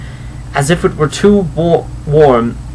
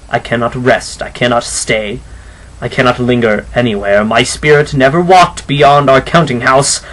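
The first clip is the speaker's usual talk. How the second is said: weary ghost. Acted. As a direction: speak like a tired, doomed phantom.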